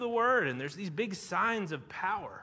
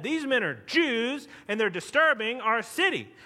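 higher, louder retold accusation; angry accusation; 3 semitones higher, 5 dB louder than usual. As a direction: denounce them before the magistrates, mildly acted. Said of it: "becoming very angry".

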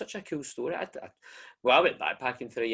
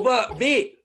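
high, loud plea; a hyped friend pleading; excited urging; 13 semitones higher, 6 dB louder than usual. Real, not acted. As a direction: jump in, thrilled. Urges going back in time.

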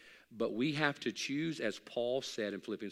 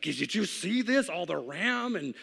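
slow, raised mock voice of God, drawn out; voicing God; 8 semitones higher, 8 dB louder, slower than usual. Preacher voicing God offering him tech, slow and high. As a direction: pitch it up and slow like God showing off. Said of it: "God's like".

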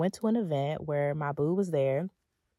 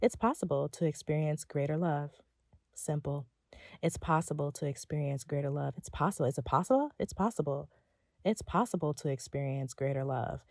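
soft affirmation; 3 semitones lower, 5 dB quieter than usual. Shown as a demonstration. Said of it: "meditating on that".

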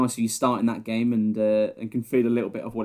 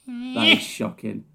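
slow, much higher mock Scouse; a pitched-up, stretched Scouse accent; 13 semitones higher, much slower than usual. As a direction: drag it out in a put-on Scouse accent. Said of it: "I bet you do a good Scouse accent".

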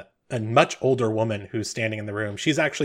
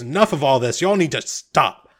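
firm command; 4 dB louder than usual. Acted. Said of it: "raises his hand and goes".

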